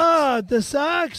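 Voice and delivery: put-on slow questioning Boston accent; drawn-out put-on Boston vowels. Puzzled by the director's correction, Boston accent. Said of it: "You do an amazing Boston accent".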